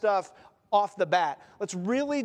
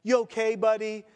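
a bit louder, teasing fake sympathy; sarcastic mock concern; 2 semitones higher, 4 dB louder than usual. Preacher voicing family teasing a crier, sarcastic. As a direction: rib a crying friend with mock concern. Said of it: "There's a lot of sarcasm".

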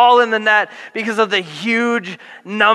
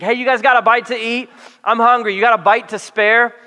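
higher, louder friendly hail across the water; mock call from the shore; 5 semitones higher, 3 dB louder than usual. Jesus hailing the fishermen from the shore, higher, louder friendly call. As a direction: call out cheerfully to the boat. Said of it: "He basically yells out to the disciples".

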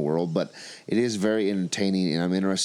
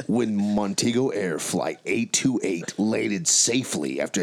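narrator voice. Acted. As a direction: read it like a movie trailer. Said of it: "in your best narrator voice".

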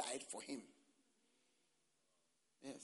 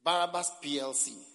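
loud mock corporate announcement; mocking shout; 2 semitones higher, 12 dB louder than usual. Preacher mocking the crowd's choice, shouted loud. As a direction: bellow the company name for laughs.

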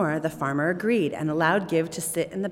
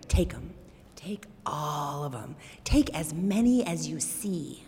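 whispering. Acted. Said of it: "he whispered in the farmer's ear".

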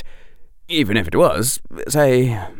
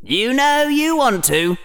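higher, teasing tempter; inner Gryffindor, tempting; 13 semitones higher than usual. A narrator's reading. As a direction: coax it out on a rising swell. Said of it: "said Gryffindor".

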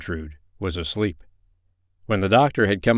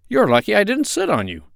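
high, louder, still astonished; startled exclamation; 13 semitones higher, 5 dB louder than usual. A narrator's reading. Doctor learns parrot hid in his coat, high and startled. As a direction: exclaim it high, taken aback.

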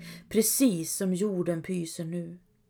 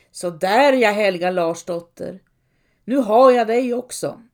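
louder, gloating hag's voice; crooked old hag; 6 dB louder than usual. Acted. The priest turned hag gloats over Helga, louder. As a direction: savour the catch like a witch. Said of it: "liknar kyrkoherden en krum liten gumma".

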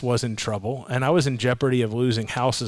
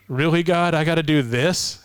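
lightly exasperated protest, pitched up; a touch of pleading disbelief, higher; mock exasperation; 4 semitones higher than usual. Believer questioning God over the journey, mock exasperated.

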